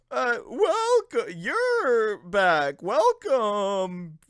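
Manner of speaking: slow drawn-out ghostly welcome; spooky ghost greeting. Acted. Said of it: "spooky ghost voice".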